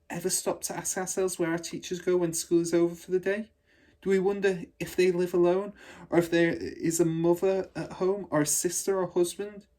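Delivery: put-on a little girl musing to herself; young girl wondering. A narrator's reading. Matilda wondering about her teachers, high childlike voice.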